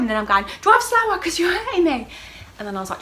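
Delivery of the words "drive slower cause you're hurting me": high, loud mock wail of complaint; pained yell. Telling Danny the drive hurts, high pained yell. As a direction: act out pained protest at the driving.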